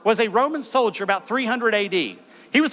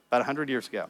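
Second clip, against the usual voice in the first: quiet emphatic echo; 7 semitones lower, 6 dB quieter, faster than usual. Real, not acted.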